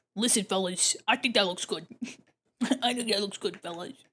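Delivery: chummy, friendly shopkeeper patter. The speaker addresses the fellas in a put-on bodega owner voice. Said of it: "I don't know what that voice is that I'm doing, like this uh, bodega owner".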